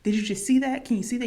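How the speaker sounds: urgent disbelief, lightly acted out; mildly freaking out. Alice asks the driver if he saw the crash, mildly freaking out. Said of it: "So she's freaking out".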